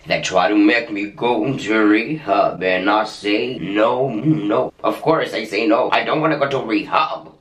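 put-on drawn-out singing in an accidental Indian accent. Vlogger comparing themselves to a singer, sung with Indian accent. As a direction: sing it slowly with a playful Indian accent. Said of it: "Pourquoi j'ai pris un accent indien?".

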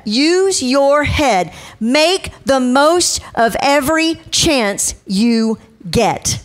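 slow, deliberate reading of scripture. Acted. Preacher reading Ephesians to the congregation, slow and deliberate. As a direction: lay each phrase down slowly like a preacher reading the Word.

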